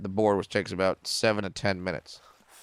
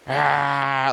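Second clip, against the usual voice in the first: imitated crowd cheer; 3 semitones higher, 4 dB louder than usual. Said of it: "they start cheering".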